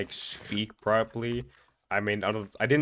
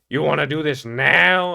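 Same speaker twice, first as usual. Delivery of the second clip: loud, incredulous with a laugh; surprised disbelief; 6 semitones higher, 10 dB louder, slower than usual. Retold or imitated. Caught off guard by the boys, loud laughing disbelief. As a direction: blurt it out half laughing, thrown off.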